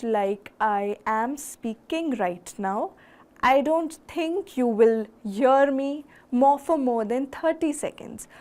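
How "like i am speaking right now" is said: slow, low-energy, unvarying pitch; monotone. Shown as a demonstration. Speaker showing the audience a same-pitch delivery, monotone. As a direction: drone along at one pitch. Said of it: "always be at the same pitch".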